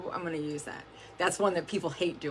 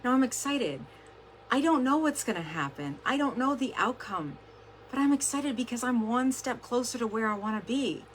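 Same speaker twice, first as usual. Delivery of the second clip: higher-pitched, emphatic self pep talk; excited; 5 semitones higher than usual. Acted. Coach acting out her mirror pep talk, excited. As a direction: psych yourself up, pitched high. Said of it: "I say it in the mirror now".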